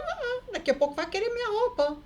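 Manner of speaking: ironic squeal. Retold or imitated. Ironic remark about the rings.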